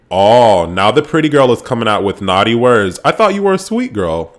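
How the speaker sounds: a hint of a mocking rival; mock sarcastic taunt. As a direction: imitate a sneering housemate, half-hearted. Gemma taunting Sarah in retold argument.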